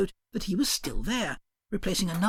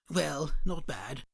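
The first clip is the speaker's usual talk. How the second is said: low, measured dodo; a dignified dodo explaining; 4 semitones lower, 3 dB quieter than usual. Acted. Dodo explains its origins, low and measured.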